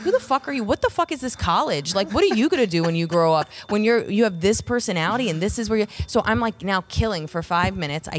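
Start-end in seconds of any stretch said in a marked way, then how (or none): 0.0-5.9 high-pitched mock tirade; heated, high-pitched comic roast; retold heckler takedown. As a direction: act out ripping a heckler apart. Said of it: "I rip this guy apart".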